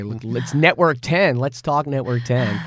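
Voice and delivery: mock American announcer accent; slow, hammed-up American accent. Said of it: "just put on my best American accent".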